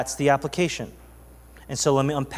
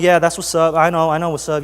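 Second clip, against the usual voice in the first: casual, cool reply; pretending to be unbothered; acting chill; 3 dB louder than usual. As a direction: play it relaxed and easygoing. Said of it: "I'm all chill".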